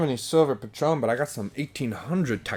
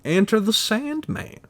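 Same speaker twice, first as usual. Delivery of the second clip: higher, louder encouraging voice; God urging him to chase his dreams, raised and loud; 10 semitones higher, 9 dB louder than usual. Retold or imitated. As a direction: boom it like a hyped-up cosmic cheerleader. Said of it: "God's trying to tell me".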